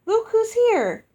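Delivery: loud, high, joyful giant hostess greeting; booming giantess. Acted. Giantess Uoxi welcoming her guests, loud and joyful. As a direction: boom it out like a delighted giantess.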